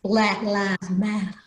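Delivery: slow, deliberate man's voice; lightly voiced man speaking slowly. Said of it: "he talked like this".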